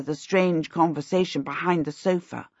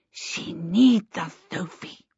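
put-on slow, lisping child plea; earnest little boy; slower than usual. A narrator's reading. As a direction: say it slowly and earnestly, as a small child. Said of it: "Twinkle said earnestly".

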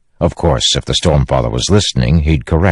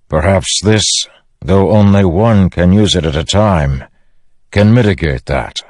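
commander briefing his men, slightly raised voice; lightly voiced leader, firm and deliberate; Dalinar; 4 semitones higher than usual. Dalinar presents the weapon to Bridge Four, commanding.

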